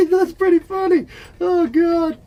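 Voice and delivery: high, laughing squeal through the words. Real, not acted. Laughing at his house arrest joke, real high laughter. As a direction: crack up at your own joke.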